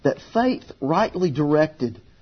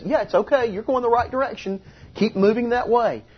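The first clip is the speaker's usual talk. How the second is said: acted encouragement, higher-pitched; encouraging; 8 semitones higher than usual. Jesus signalling to a struggling man, encouraging. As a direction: coax them along with a lifted voice. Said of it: "it's that encouraging thing that says".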